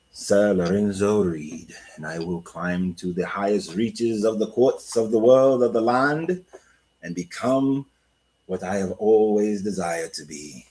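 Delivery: put-on slow, grand British accent. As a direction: proclaim it like a British nobleman, drawn out. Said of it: "without using a British accent".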